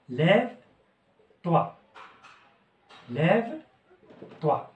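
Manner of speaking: very slow, drawn-out model phrase; slow teaching demo. Shown as a demonstration. Teacher modelling the phrase for students, very slow. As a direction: stretch each sound for the class. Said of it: "ناخدو أسهل وحدة".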